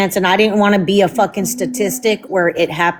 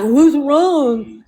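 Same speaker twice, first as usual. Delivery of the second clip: mocking the husband; 4 semitones higher than usual.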